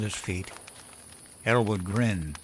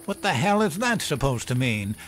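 higher-pitched imitation of flustered protest; 4 semitones higher than usual. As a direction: act out a mildly rattled comeback. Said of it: "got all flustered and he said".

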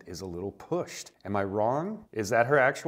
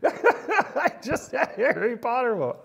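"I just had a Harry Potter moment" in a higher, louder put-on British accent; a playful British accent, pitched up; mock British accent; 14 semitones higher, 6 dB louder than usual. Shown as a demonstration. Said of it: "Completely accent driven".

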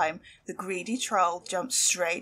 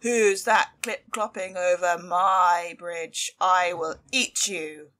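slow, louder troll shout; troll screaming; 5 dB louder, slower than usual. Acted. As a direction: menace the goat, drawn out and loud. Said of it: "the troll jumped onto the bridge and screamed".

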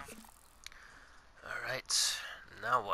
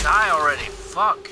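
angry shout; 4 semitones higher, 9 dB louder than usual. Real, not acted. Yelling at enemy in combat.

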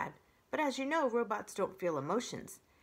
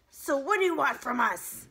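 louder, a touch higher fox growl; lightly voiced growl; 7 semitones higher, 8 dB louder than usual. A narrator's reading. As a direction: demand it like a wary fox. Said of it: "growled Fink".

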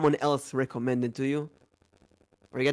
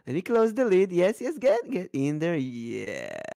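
mommy voice. Acted. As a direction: coo it like a creepy doting mother. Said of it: "Lower your voice and say something that a mommy would".

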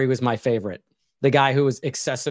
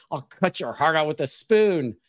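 quoting Rickman's sheriff. Retold or imitated. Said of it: "Alan Rickman is a sheriff".

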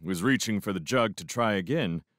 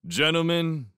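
raised, formal toastmaster's voice; formal address; 7 semitones higher than usual. A narrator's reading. Lewis addresses the group to offer another toast, formally. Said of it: "he said formally".

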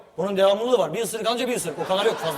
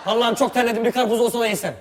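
varied demo; 3 semitones higher, 7 dB louder than usual. Shown as a demonstration. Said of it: "Her şeyin aynı tonu olamaz".

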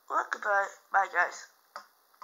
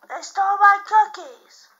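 angry complaint; 7 dB louder than usual. Pretend. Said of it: "why are you so angry?".

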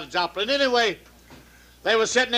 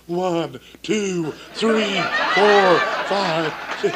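counting up through laughter, getting louder; laughing count; 3 dB louder, much slower than usual. Acted. Waitress counting for the doctor, laughing louder. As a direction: let the laugh break into the count.

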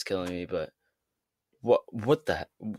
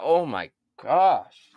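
drawn-out amazement; 3 semitones higher, 6 dB louder, much slower than usual. Real, not acted. Awed by the rapper's chopping.

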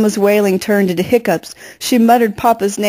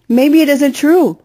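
higher, slow hopeful plea; 7 semitones higher, 3 dB louder than usual. A narrator's reading. Daughter comforts mother on the pavement, slow and hopeful. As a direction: slowly offer a little hope. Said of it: "I said with hope".

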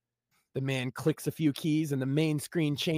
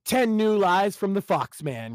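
slow title read; 3 dB louder, slower than usual. Acted. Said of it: "read the title".

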